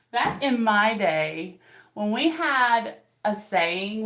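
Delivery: put-on slow, drawn-out old-timer voice; mock old-timer. Mom teasing young viewers, slow mock old-timer. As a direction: stretch it like a crusty grandpa.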